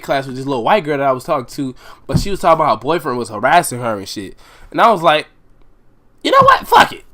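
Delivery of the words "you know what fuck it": hyped-up decision. Retold or imitated. Deciding to fight the boyfriend.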